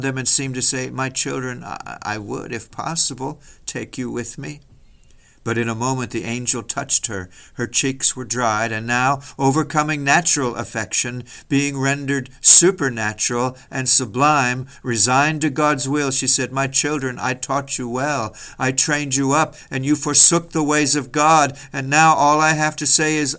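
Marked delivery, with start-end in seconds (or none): 0.9-4.6 soft, faltering motherly reply; tender sorrow. Acted. Mother embracing her doomed children, tender sorrow. 16.5-23.4 stern renunciation. Acted. Mother resigned to God's will addressing her children, stern renunciation.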